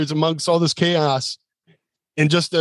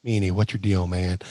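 Tracy Smothers; 6 semitones lower, 4 dB quieter than usual. Retold or imitated. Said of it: "anytime he saw Tracy, he'd walk in".

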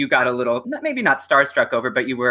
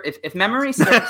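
laughing; 9 semitones higher than usual. Real, not acted. Laughs mid-sentence at own memory.

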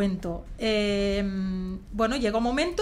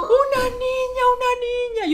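high and slow, crying; repeating through tears; 5 dB louder than usual. Retold or imitated. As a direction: repeat it over and over, overwhelmed. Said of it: "Yo solo repetía". (repitiendo entre lágrimas, agudo y lento)

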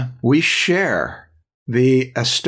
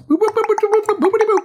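high beeping robot imitation; much faster than usual. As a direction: copy the robot boops up high. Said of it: "How'd you do that sound?".

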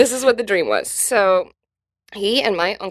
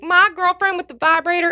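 eager fan call; 9 semitones higher, 6 dB louder than usual. Retold or imitated. Fans shouting questions at comedian.

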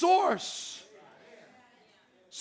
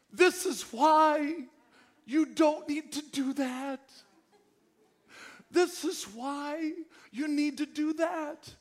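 heartfelt parent plea; 2 semitones higher, slower than usual. Pretend. God's heartfelt plea to child.

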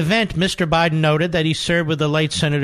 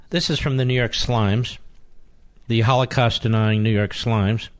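mocking; 3 semitones lower than usual. Real, not acted. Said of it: "I know, I drive them nuts".

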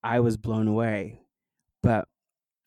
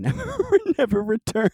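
higher, louder, words breaking into laughter; laughing; 14 semitones higher, 4 dB louder than usual. Real, not acted. Guest laughs about childhood fear of space, laughing. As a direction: laugh through the words at your own fear.

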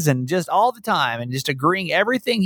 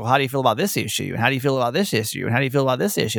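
quick, repetitive quoted questions; rapid-fire questioning; 3 semitones lower, much faster than usual. Retold or imitated. Mimicking relentless political questions to daughter, rapid-fire. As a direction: rattle off the same question on repeat. Repeated questioning once the ball rolls.

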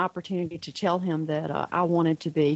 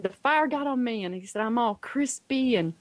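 higher-pitched, lightly imitated boy; animated child; 4 semitones higher than usual. Son imagines himself burned, mildly animated imitation. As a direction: report the pretend injuries as an earnest child. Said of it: "he was so animated".

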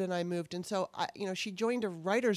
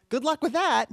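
louder, higher mocking send-off; snide good luck, said louder and higher; sarcastic; 8 semitones higher, 7 dB louder than usual. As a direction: sneer it like a brush-off. Quoting his sarcastic last message.

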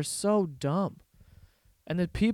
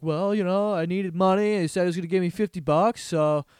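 dopey actor voice; 2 semitones higher than usual. Retold or imitated. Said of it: "This guy's like".

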